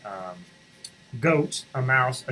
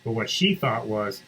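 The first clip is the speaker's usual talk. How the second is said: usual speaking voice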